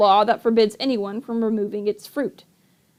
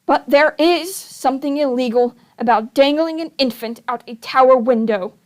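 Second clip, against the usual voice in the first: indignant; 2 semitones higher than usual. Acted. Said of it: "said indignantly".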